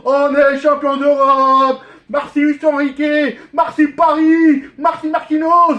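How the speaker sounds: loud elated cheering; excited. Real, not acted. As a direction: celebrate at the top of your voice. Fan celebrating, thanking players.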